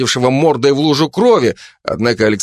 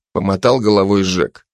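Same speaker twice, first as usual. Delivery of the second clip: usual speaking voice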